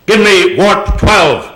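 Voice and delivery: slow, measured command; lightly voiced starship order, drawn out; Captain Kirk. Captain calling down to engineering, lightly acted command. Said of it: "when Captain Kirk calls down to".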